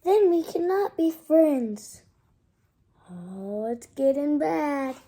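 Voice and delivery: loud, slow, tragic Gerald; dramatic sad elephant. Acted. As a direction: ham up the sad goodbye. Reads Gerald's sad lines.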